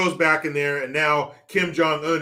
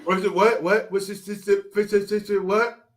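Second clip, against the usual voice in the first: higher, stammering mock bewilderment; mock confusion; 4 semitones higher than usual. Host mimics a man who can't follow the question, confused. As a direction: stumble over the words as if baffled.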